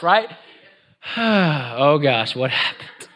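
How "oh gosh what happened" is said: drawn-out, half-laughing sigh into the words; mock weary sigh. Father answering his daughter's sighs, mock weary sigh. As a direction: sigh it out as a put-upon parent. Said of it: "the sighs and everything else".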